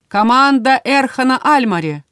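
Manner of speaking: loud, high announcer call. A narrator's reading. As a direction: announce the team name loudly. Arena announcer calls team.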